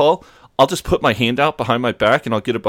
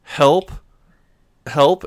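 put-on kid voice; 7 semitones higher, 5 dB louder than usual. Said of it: "then he's like".

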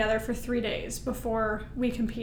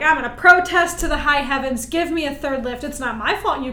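mild retold protest; 5 dB louder than usual. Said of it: "Like, I am angry".

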